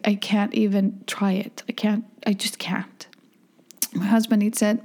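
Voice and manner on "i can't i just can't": hushed, half-voiced disgust; a whispered grossed-out confession. Real, not acted. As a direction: whisper it like it makes you queasy. Refusing to eat shark.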